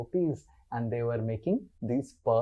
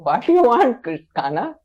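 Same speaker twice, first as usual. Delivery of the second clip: high, loud doting question; an indulgent mother answering her child's call; Mother Yasoda; 10 semitones higher, 9 dB louder than usual. Acted. Mother answers little Krishna's calls, indulgent and high-pitched. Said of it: "Mother Yasoda loves Krishna so much".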